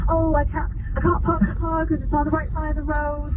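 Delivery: high-pitched mock British accent; put-on British accent. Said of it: "That's a pretty good accent".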